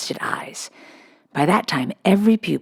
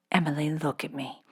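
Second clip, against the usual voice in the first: tender whisper to a doll; soft, whispered, intimate; 7 dB quieter than usual. Acted. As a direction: hush it to your doll. Child talking to her doll.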